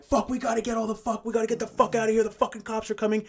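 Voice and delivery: high, muted imitation of frantic yelling; strained, hammed-up getaway panic; mock screaming. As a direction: scream it in panic without the volume. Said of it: "screaming at one another".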